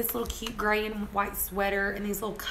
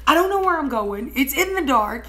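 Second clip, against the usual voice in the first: raised, frustrated retold complaint; exasperated driver's protest; frustrated arguing; 4 semitones higher, 4 dB louder than usual. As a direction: bicker back, lost and fed up. Retold quarrel while lost driving.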